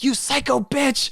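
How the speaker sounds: put-on high, slow, furious old lady; korean ajumma. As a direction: shriek it like an outraged grandma. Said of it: "she was like".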